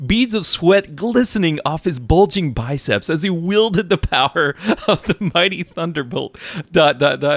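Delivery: high-pitched, laughing through the words. Reading a funny passage aloud to the writer, laughing while reading aloud. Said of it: "I can't even read this without laughing so hard".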